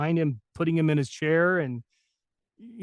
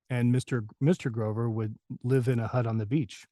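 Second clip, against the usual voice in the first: imitating Ed Grover; 2 semitones lower than usual. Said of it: "And he's like".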